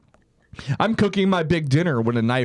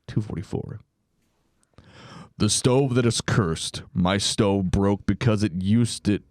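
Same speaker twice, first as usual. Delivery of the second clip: spooky narrator voice. Acted. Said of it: "spooky narrator voice".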